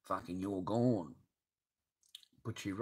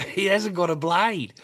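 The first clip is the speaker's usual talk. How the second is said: laughing disbelief; 9 semitones higher, 11 dB louder than usual. Real, not acted. Laughing at the retold raid.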